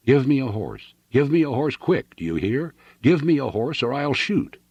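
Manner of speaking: high-pitched, urgent threat; desperate demand. A narrator's reading. Fugitive leveling his pistol at friend, desperate demand. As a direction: demand it at gunpoint.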